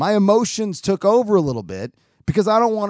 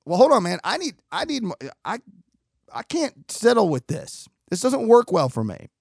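higher, halting protest; emphatic objection; 4 semitones higher than usual. Retold or imitated. Festivalgoer objecting to an unsourced rumor, emphatic. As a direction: push back emphatically, retold. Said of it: "I was very emphatic".

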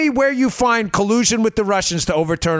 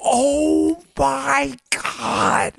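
drawn-out, higher-pitched mock gasp of scandal; mock horror; 6 semitones higher, much slower than usual. Reacting to a college speech as scandal, mock horror. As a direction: stretch it out in fake shock.

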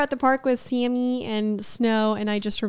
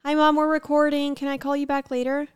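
sweet, higher phone voice to mom; dodging a caller; 6 semitones higher than usual. Real, not acted. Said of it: "like, tone from you".

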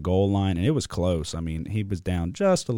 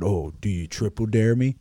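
mocking taunt; 2 semitones higher than usual. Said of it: "he said".

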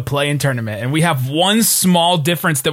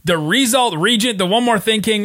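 announcer-style show opening with climbing pitch on the titles; podcast host intro. Acted. Host opening the Mavs podcast, introducing his co-host with a hype announcer read.

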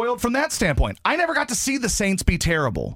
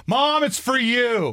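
put-on letdown teen voice; 7 semitones higher, slower than usual. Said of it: "You're like".

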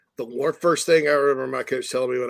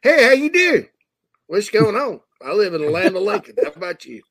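central Illinois twang, higher and louder at the start; imitating how folks past Champaign talk, Illinois accent; downstate Illinois accent; 6 semitones higher, 4 dB louder than usual. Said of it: "the more they sound like us".

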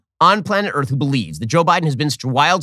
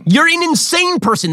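much higher, slowed, disbelieving cry; real exasperation at the clip; stunned indignation, drawn out high; incredulous outburst; 4 dB louder than usual. Real, not acted. Reacting to Jeffries' claim.

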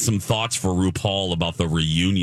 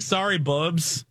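overwhelmed by cuteness; 5 semitones higher than usual. Retold or imitated. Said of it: "Cute aggression is real".

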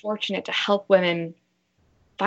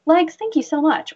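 talking to her thighs; 3 semitones higher than usual. Shown as a demonstration. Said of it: "So I'll look at it and say".

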